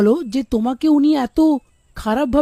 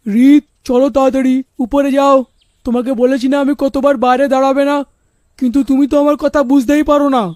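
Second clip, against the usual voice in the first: stern, raised father's voice scolding; angry scolding father. Acted. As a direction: scold the daughter sharply. Father scolding daughter outside.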